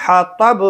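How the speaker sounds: حطب, rasped-air h at the start; deep haa. Shown as a demonstration. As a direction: say حطب with h from the throat. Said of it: "ح بڑی ہے".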